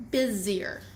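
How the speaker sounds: "Busier" voiced Z, not S. Shown as a demonstration. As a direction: say "Busier" with a buzzing Z in the middle. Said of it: "pronounce it with a Z sound".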